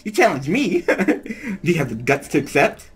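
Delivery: high, giggly mock taunt; laughing taunt. Voicing Mai's taunt.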